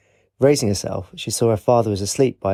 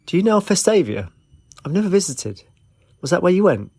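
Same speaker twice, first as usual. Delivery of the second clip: eager questions; 8 semitones higher than usual. A narrator's reading. Eager questions between the two.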